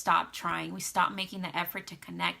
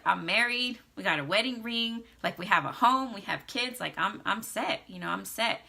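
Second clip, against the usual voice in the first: raised, louder, self-satisfied husband voice; smug husband; 3 semitones higher, 4 dB louder than usual. Retold or imitated. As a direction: play the settled husband who thinks he's done. Wife voicing complacent husband.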